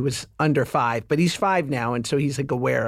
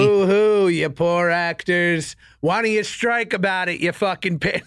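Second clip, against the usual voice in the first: mock jeer. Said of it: "No, I'm kidding".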